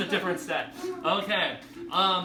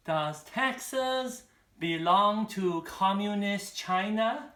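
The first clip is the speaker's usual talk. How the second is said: mock-fearful question, higher and slow; trepidation; 5 semitones higher, slower than usual. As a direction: ask it warily, drawn out, imitating an anxious mother-in-law. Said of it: "turns to my friend in total trepidation".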